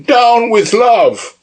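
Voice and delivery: high, slow, odd voice for Witherspoon. Acted. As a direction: bellow the slogan slowly in a strange high voice. Witherspoon shouting interruption.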